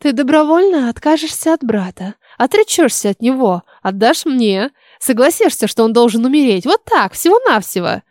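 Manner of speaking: insinuating witch with swooping intonation; lightly voiced, coaxing storybook witch; witch laying down terms. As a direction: press each demand on her, then toss off the last.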